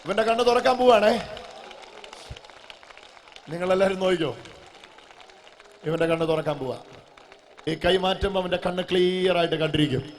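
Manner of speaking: loud, emphatic faith declaration; full-force preaching. Real, not acted. Preacher announcing that the boy will see, full-force preaching. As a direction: proclaim it boldly to the whole room.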